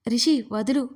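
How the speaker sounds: sharp, loud angry order; angry command. Acted. Yajna ordering Rishi to release her, loud and angry. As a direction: snap at him to let go. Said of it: "గట్టిగా చెప్పింది కోపంగా".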